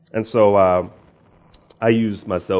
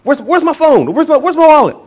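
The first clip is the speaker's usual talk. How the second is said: comic high-pitched holler, much louder; mock yelling; 10 dB louder than usual. Preacher retelling how he hollers to his wife for his lost phone, mock yelling. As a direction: imitate yourself yelling in a panicked search. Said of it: "I'm yelling at my wife".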